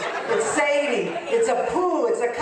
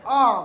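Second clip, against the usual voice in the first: bad oh; 3 semitones higher, 6 dB louder than usual. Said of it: "the head goes down like".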